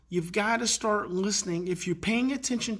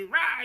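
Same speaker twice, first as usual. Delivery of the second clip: angry roar; 5 semitones higher than usual. Retold or imitated. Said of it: "he's mad".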